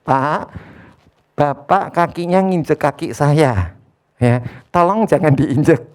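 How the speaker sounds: slow, calm, polite request; just ask him plainly and kindly to move his foot; unhurried courteous ask; polite direct request. Shown as a demonstration. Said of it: "Kan cuma ngomongnya begini".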